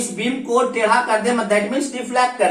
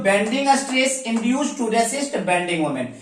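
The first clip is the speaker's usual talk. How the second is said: slow dictation; slower than usual. Shown as a demonstration. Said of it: "इसका definition देखें".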